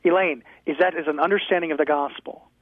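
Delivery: ordinary talk, nothing marked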